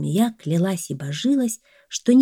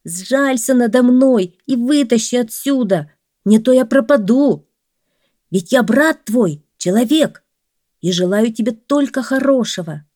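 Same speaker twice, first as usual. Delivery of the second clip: high, loud begging; desperate man calling up from a well; pleading man; 5 semitones higher, 6 dB louder than usual. A narrator's reading. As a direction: beg for your life, voice lifted.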